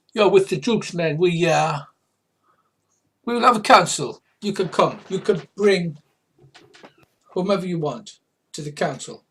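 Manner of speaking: high, loud creature chief; Morricanth voice. Acted. Important Morricanth invites them to council, high and loud. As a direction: pronounce it high and loud, in pieces. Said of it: "what accent I'm using for the, uh, Morricanth".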